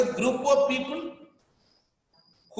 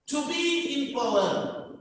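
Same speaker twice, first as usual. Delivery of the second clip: slow, higher-pitched heading; slow and raised, as a heading; announcing a point; 4 semitones higher, slower than usual. Real, not acted. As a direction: announce the key point slowly.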